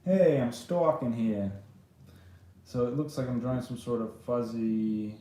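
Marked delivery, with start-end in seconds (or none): 0.0-1.5 slow mock New Yorker; drawn-out classic New York accent. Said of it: "He's a classic New Yorker".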